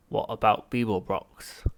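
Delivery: slow, whispered alien report; Vogon voice. Acted. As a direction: report like a cold Vogon, slowly.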